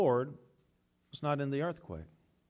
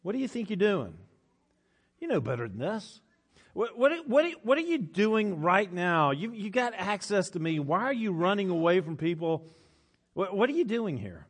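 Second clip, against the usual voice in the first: God's scolding; 3 semitones higher than usual. Acted. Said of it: "God may speak to you that way".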